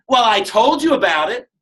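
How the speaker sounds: half-joking irritated comeback; mock irritated retort. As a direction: play the annoyed upline scolding. Snapping at a confused newcomer.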